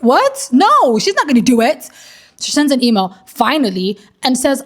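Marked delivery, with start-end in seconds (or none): 0.0-1.9 high-pitched incredulous "what"; mock-incredulous, dismissing the idea; retold disbelief. Friends answering whether the dressmaker can do it, incredulous.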